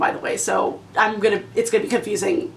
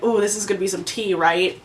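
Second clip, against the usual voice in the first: giggly anticipation; 4 semitones lower, 4 dB quieter than usual. Retold or imitated. Gleeful anticipation of juicy book.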